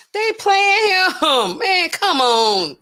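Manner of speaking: slow, high, laughing through it; laughing hard. Real, not acted. Host laughing at the police playing him. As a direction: crack up while talking.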